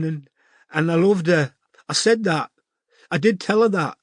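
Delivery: high, crying voice, still sobbing; tearful. A narrator's reading. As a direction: push the words out through tears. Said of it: "said Zoe through sobs".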